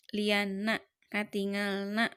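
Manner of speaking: "Liana, katingalna" with a slight pause, ending "na" marked; rhyme shown on "na". Shown as a demonstration. Teacher showing that Liana and katingalna rhyme, "na" marked. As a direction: set off the final "na" in "Liana" and "katingalna". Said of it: "sami sorana".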